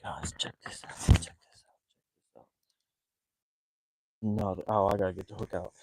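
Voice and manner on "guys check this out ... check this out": excited heavy breathing; breathy, short of air. Real, not acted. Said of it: "Man, I'm breathing heavy".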